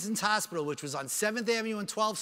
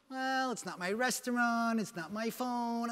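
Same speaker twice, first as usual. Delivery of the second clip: slow, higher-pitched hedging; unhelpful waiter, imitated; 3 semitones higher, 3 dB quieter, slower than usual. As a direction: drag out a feeble excuse. Unhelpful restaurant worker imitated.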